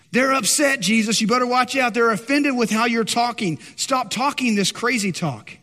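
hammed-up disciples warning their teacher; urgent pretend worry; mock alarm. Acts out disciples warning Jesus.

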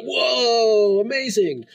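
high, amazed exclamation; amazed gasp. Retold or imitated. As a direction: gush like a stunned fan. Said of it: "it'd be like".

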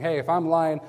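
loud, punchy dare to heaven; self-cursing oath. Acted. Peter dares God to strike him, loud and emphatic. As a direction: build to a booming lightning strike. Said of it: "put a curse on himself".

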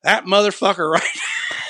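high, yelled imitation of an angry mother, breaking into a laugh; hammed-up retold outburst of a furious little mom; mock furious mom. Mom voiced furious, pointing.

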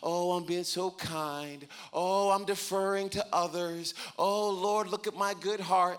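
mock-pious, self-congratulating; sing-song fake humility; mock self-praise. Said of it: "and we think".

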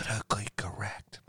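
unvoiced whispered aside. Real, not acted. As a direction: whisper it under your breath.

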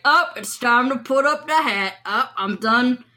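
lightly voiced cowboy calling it quits; a hint of an old-time cowboy; retiring cowboy. A former cowboy announces retirement to folks, lightly voiced cowboy. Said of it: "refer to himself as a former cowboy".

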